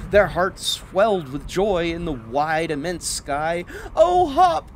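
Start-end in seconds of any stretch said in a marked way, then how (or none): 3.9-4.8 happy sigh. Acted. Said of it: "Clorinda sighed".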